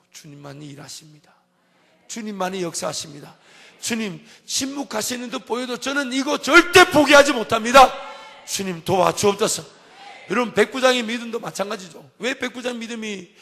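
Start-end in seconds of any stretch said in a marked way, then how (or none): 3.8-9.6 loud, high cry to God; pleading prayer. Acted. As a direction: cry out that you will never give up. Voiced desperate prayer to the Lord.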